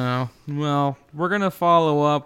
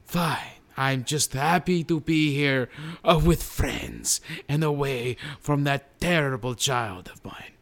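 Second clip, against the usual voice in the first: lightly voiced guest presenter with halting announcements; a hint of a ceremonial guest-host voice; award presenter Robert; 3 semitones higher, slower than usual. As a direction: present the nominees as a slightly put-on celebrity guest.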